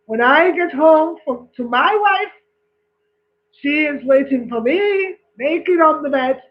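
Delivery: put-on boasting Scotsman in a joke, Scottish accent. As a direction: put on a Scottish accent, one-upping the Frenchman. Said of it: "The Scottish man says".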